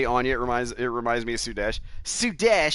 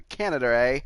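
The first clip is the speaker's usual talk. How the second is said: mock Canadian. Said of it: "you people up there in Canada".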